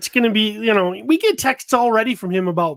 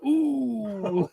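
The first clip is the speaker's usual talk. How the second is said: imitated "ooh"; 3 semitones higher than usual. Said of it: "I think I went".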